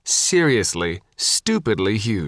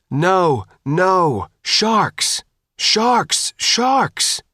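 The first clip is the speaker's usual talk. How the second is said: rising, ever higher yells of warning; shouting warning; 8 semitones higher, much slower than usual. A narrator's reading. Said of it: "Sophia shouted over the loudhailer".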